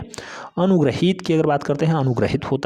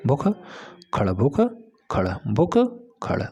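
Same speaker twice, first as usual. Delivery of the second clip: slow dictation; much slower than usual. Shown as a demonstration. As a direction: stretch the doubled ख. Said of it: "slow dictation". (भुक्खड़ को धीरे से खींचकर)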